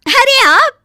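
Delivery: high, loud delighted cry; surprised. Acted. Shikha, surprised at her husband's sudden arrival. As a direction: gasp it out in delight.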